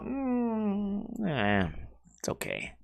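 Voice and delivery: mock a lukewarm verdict, trailing down very softly; unimpressed. Diner letting down the friend who cooked, unimpressed. Cook retells guests' underwhelmed reaction.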